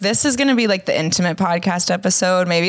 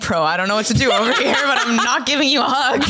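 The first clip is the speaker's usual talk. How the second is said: laughing quote; 2 semitones higher, faster than usual. Retold or imitated. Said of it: "I'm literally like".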